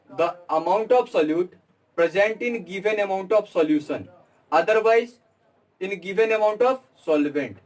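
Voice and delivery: very slow, every word spaced for students to write; slow dictation. Shown as a demonstration. Teacher dictating the definition to the class, very slowly. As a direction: dictate it slowly so they can copy.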